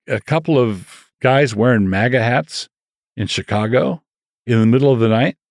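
rising, disbelieving questions; incredulous mockery. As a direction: question each piece of the story in mock disbelief. Mocking the story as unbelievable.

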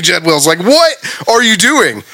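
normal talking voice

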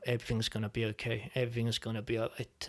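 gentle, understated comfort; calm, peaceful voice. Retold or imitated. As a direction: quietly imitate a soothing inner voice. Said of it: "very calm, peaceful voice saying".

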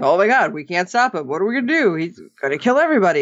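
rushed pretend panic; quick, understated imitation of freaking out; mock meltdown. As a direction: rattle it off like someone mildly panicking. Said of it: "Adam having a meltdown".

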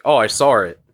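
"saw" said with an R on the end, like "sore"; intrusive R. Retold or imitated. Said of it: "say it with an R sometimes".

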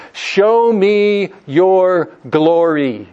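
a slow, drawn-out plea to God; a hint of Moses pleading, slowed right down. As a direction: ask for the glory slowly, yearning.

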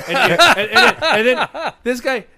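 laughing. Real, not acted. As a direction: crack up while telling it. Laughing while telling the story.

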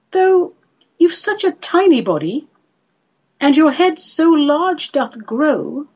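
theatrical brush-off in lilting verse; Lady Jingly dismissing him. Acted.

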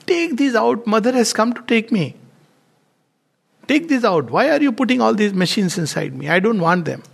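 urgent plea. Retold or imitated. Dying man pleading.

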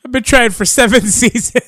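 high mock complaint breaking into laughter; comic wail with a laugh inside; Jorah's lament. Joins in voicing the rejected Jorah.

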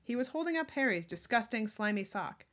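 clear, projected storybook reading; story narration. A narrator's reading. Reader telling of Dobby holding Harry's slimy sock, story narration. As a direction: read the tale aloud with emphasis.

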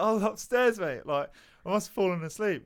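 high and loud, rushing to explain; flustered excuse. Retold or imitated. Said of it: "I was like".

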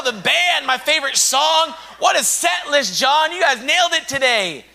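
preacher mocking band-focused worshippers, hammed-up; mock hyped churchgoer. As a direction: parody someone who only loves the set list.

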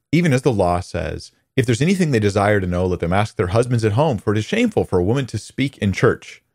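reading out a view to be refuted; inflected quotation. Retold or imitated. Imitating a teacher reading scripture to her class, with certain inflections. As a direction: recite it as someone else's claim. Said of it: "read the R S V with certain inflections".

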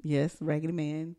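softly whispered name. Real, not acted. Co-host teasing her sister about her crush, whisper. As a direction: breathe the name secretly.

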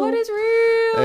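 high, slow mock-profound question. Echoing the quiz host's word, mock profound and drawn out. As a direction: ponder it like a philosopher, hammed-up. Mock philosophical echo of "real.

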